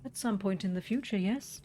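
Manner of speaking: lightly voiced formal shopkeeper; a hint of an overly polite old shopkeeper; Borrow. Streamer reading the shopkeeper's lines to the player, lightly voiced.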